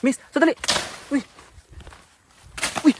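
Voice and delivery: loud plea to wait; shouting after her. Real, not acted. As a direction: yell wait as she walks off. Calling after woman leaving.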